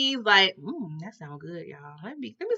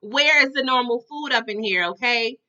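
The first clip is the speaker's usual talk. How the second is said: higher, indignant retold demand; outspoken; 3 semitones higher, 5 dB louder than usual. Hungry boy demanding normal food, bluntly outspoken. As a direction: imitate a boy speaking his mind, emphatically. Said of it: "He was outspoken".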